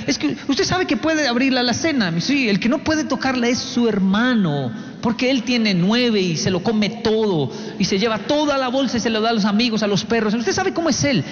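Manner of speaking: high-pitched, worked-up fatherly plea; acted dad getting carried away in his appeal; exasperated pleading. Dad urging son to feel free, exasperated.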